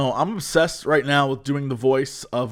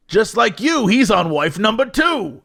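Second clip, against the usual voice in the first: radio ad tag; 5 semitones higher than usual. Retold or imitated. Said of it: "ad ends with something like".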